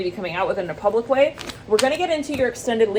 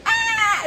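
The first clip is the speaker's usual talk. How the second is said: high mock scream; short, high-pitched shriek of pretend fright; freaked-out scream; 14 semitones higher than usual. Drew Barrymore seeing E T, a freaked-out mock scream. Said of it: "She gets freaked out".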